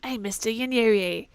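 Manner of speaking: put-on lightly Southern tough kid; mild Southern-accented kid telling the mister off. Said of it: "I forgot I was doing Southern".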